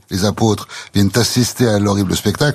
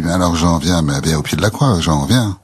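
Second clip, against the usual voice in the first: lower, dying Jesus calling; ever lower voice; 5 semitones lower than usual. Retold or imitated. Jesus on the cross calls John closer, lower voice. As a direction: sink the voice as he calls. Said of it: "d'une voix toujours plus basse".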